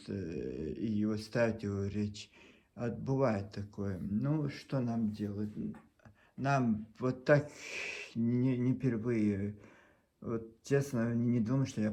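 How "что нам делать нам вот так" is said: ordinary delivery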